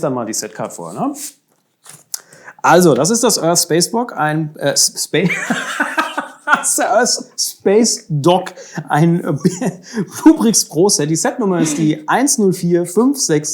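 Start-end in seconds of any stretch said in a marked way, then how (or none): 2.6-11.1 breaking character giggling. Real, not acted. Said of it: "kannst du mal aufhören zu lachen?".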